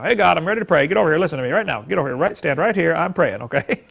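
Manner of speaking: hurried, bossy orders in mock prayer. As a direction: imitate someone ordering God around. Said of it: "like we're the boss".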